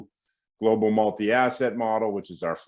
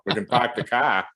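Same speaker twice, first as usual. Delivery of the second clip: Boston accent; 2 semitones higher than usual. Shown as a demonstration. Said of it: "I can do a Boston accent".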